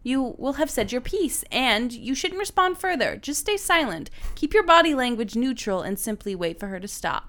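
measured advice-column read; reading aloud. Acted. Reading written advice to co-host, reading aloud. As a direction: read it out deliberately.

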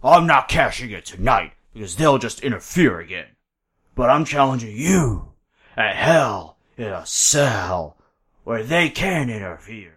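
lightly growled-out wrestler challenge, drawn out at the end; mock promo, stretching the last phrases; a hint of a big wrestler's slow threat; Braun. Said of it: "That's how he talks, though".

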